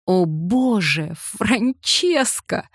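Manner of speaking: slow, drawn-out exclamation through laughter; laughing out loud. A narrator's reading. He bursts out laughing at Francesca's question, laughing. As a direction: burst out laughing at her name. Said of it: "заливаясь хохотом".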